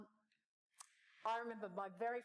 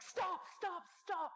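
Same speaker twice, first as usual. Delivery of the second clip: put-on heavy Brazilian accent; 11 semitones higher, much slower than usual. Exec throwing hands up at the workshop, Brazilian accent. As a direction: imitate a Brazilian exec's accent. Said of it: "in a very heavy Brazilian accent".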